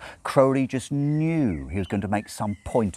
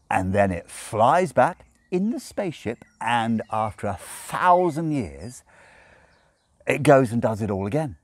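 quickly; 6 semitones higher, 5 dB louder than usual. A narrator's reading. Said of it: "said Crowley quickly".

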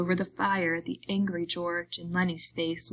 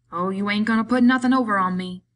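short irritated snap, louder; snapping; 3 semitones higher, 8 dB louder, faster than usual. A narrator's reading. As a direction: bite back, annoyed. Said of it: "George snapped".

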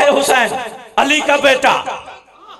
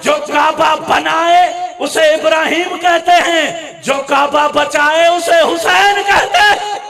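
slow, emphatic preaching line; preaching climax; 3 semitones higher, slower than usual. Acted. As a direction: press each word home, slow and ringing. Sermon climax.

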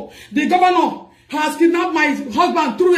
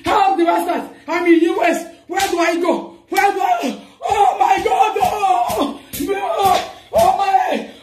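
anguished outcry; 2 semitones higher, slower than usual. Real, not acted. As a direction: cry out helplessly, at the end of her rope. Wife breaking down, begging for help.

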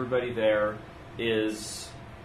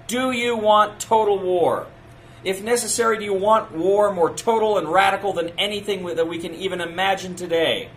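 booming rousing general speech; 5 semitones higher, 6 dB louder than usual. Retold or imitated. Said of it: "he asked that question".

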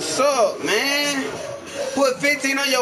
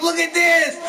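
higher, punchy shout at normal speed; angry shout; 6 semitones higher than usual. Real, not acted. Gamer pointing out double team, quick angry shout. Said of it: "I never raged like that before".

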